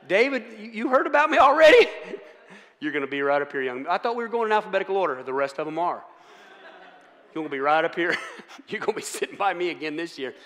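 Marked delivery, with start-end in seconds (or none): 0.1-3.9 much higher, louder mock teacher calling him out. Teacher warning the class clown he sits up front. Teacher voiced in school story. 7.3-10.3 lightly voiced weary teacher; a hint of resigned teacher seating him. Teacher telling the boy he sits by her again.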